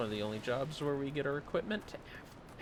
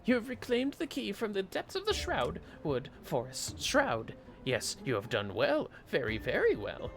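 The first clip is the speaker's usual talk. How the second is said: high, loud excitable kobold; 8 semitones higher, 4 dB louder than usual. Acted. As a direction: squeak it out like an eager little kobold. Voices a kobold NPC's dialogue.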